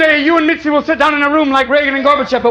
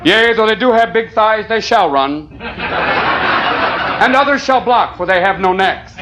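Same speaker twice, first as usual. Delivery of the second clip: mock preaching Bubba. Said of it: "the gospel according to Bubba".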